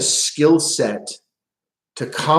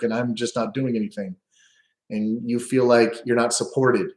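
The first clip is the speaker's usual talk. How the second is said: calm empathic pivot. Shown as a demonstration. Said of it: "See how I pivot".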